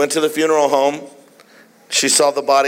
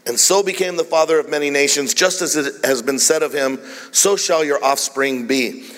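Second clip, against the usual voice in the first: measured, emphatic reading with weighted key words; scripture reading. Real, not acted. Preacher reading Romans to the congregation, deliberate emphatic reading. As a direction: read deliberately, stretching the important phrases.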